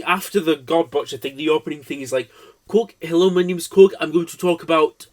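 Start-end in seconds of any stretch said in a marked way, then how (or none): 2.7-5.1 rough attempt at Korg's accent; bad Korg accent. Introducing himself as Korg in a bad accent. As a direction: do a poor Korg accent impression. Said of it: "this is the worst accent impression".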